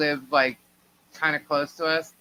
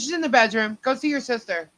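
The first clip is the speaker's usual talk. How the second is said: mother's ominous hint; 7 semitones higher than usual. Retold or imitated. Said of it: "She goes".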